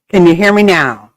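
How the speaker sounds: laughing through the question. Real, not acted. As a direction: giggle while asking again. Repeating mic check, laughing.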